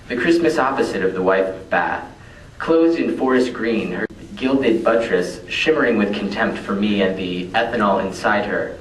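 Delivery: emphatic, declaimed poem reading; poetry recital. Acted. Poet reading about his van to an audience, declaimed recital. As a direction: declaim it line by line.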